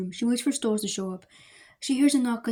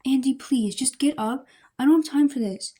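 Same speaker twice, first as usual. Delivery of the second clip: exasperated pleading; 4 semitones higher, 4 dB louder than usual. Acted. Wife losing patience, pleading.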